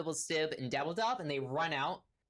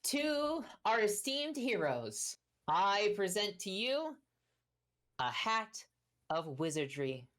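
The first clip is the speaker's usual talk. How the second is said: grand presentation; 5 semitones higher, slower than usual. Acted. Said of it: "and he goes".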